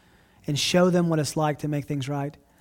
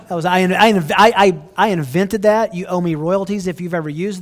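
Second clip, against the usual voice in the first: playful boast; 2 semitones higher, 7 dB louder than usual. Real, not acted. Jokingly claims inventing the pout.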